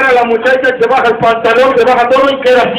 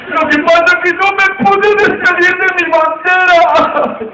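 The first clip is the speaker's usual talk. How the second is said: put-on high old man voice; 6 semitones higher, slower than usual. Old Cuban man laments his flag.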